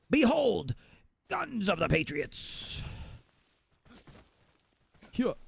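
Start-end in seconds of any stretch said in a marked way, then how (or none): 0.1-2.8 slow, dropping to soft, dramatic villain; game villain quote. Retold or imitated. Streamer quoting a game villain, slow dramatic. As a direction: intone it grandly then trail off. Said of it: "who could forget".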